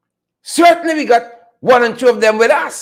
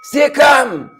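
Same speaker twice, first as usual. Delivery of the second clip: shouted stay calm; 3 semitones higher than usual. Pretend. Sudden shout of the phrase.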